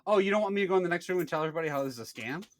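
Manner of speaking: retold livid comeback. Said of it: "I was livid at this point".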